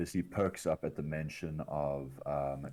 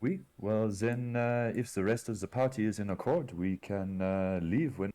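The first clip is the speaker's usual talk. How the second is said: higher-pitched bad French accent; terrible French accent; 5 semitones higher, 3 dB louder than usual. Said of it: "in a terrible French accent".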